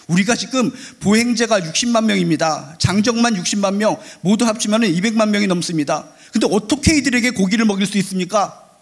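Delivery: preacher acting out an indignant challenge; arguing objection. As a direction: argue back with rising insistence. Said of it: "모세가 따지기 시작합니다".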